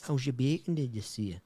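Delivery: hesitant go at Geordie; lightly attempted Geordie accent. Shown as a demonstration. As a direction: try it out in Geordie. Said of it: "How would you say it in the Geordie accent?".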